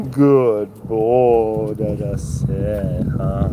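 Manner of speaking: very slow, drawn-out crooning praise; praising a dog. Real, not acted. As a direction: croon approval to a dog, stretching every word.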